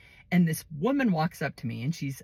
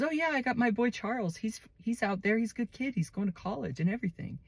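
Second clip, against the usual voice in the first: put-on bragging gently on her boy; proud mother; 6 semitones higher than usual. The speaker voiced talking of son.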